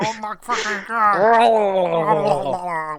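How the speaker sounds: high-pitched excited rave; gushing delight. Real, not acted. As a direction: rave about a bad film.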